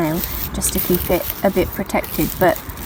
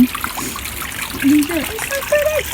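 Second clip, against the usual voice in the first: delighted cooing; 13 semitones higher, slower than usual. Real, not acted. Admiring flowers coming up.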